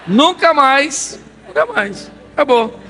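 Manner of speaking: put-on high, slow, drawn-out childish refusal; frightened little girl. The little girl refuses another walk with the pastor, high drawn-out plea. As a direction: plead never again like a scared toddler.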